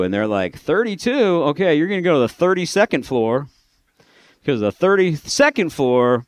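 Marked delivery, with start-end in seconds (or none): 0.6-3.5 mock surprise. Retold boss reacts to the age.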